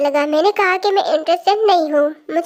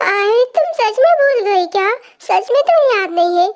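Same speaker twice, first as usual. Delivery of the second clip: incredulous question, pitched up at first; acted disbelief; 4 semitones higher than usual. He thinks she forgot their bet, disbelief. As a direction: ask as if you can't believe it.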